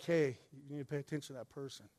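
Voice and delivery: soft, quick nudge in the ear; voiced near-whisper, hurried and low; mock whisper. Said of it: "Jesus whispers in your ear".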